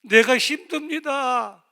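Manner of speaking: loud, high, slow pleading cry; anguished cry to God. Retold or imitated. (하나님께 울부짖듯 높고 크게)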